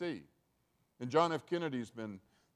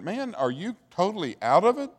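incredulous arguing; 6 semitones higher, 7 dB louder than usual. Acted. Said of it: "And they were arguing".

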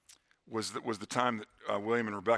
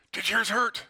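put-on higher, curious child's voice; little girl asking; 8 semitones higher, 4 dB louder than usual. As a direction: ask it like a small sister checking. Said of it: "And Rebecca said".

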